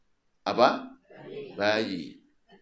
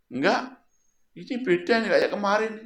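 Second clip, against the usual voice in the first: high voiced blind man; 10 semitones higher, faster than usual. Blind man notices the difference.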